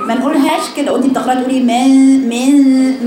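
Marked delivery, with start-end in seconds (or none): 1.6-3.1 من said open-jawed with the نون sounding clear; imitating the wrong way. Shown as a demonstration. Teacher imitating her student's mistaken من, open jaw. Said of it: "الخطأ اللي أنت بتقولي من".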